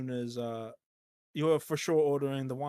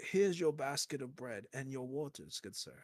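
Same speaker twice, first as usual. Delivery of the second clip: polite butler robot; 3 semitones lower, 7 dB quieter than usual. Retold or imitated. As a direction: deliver it like a mechanical butler. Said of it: "he's like".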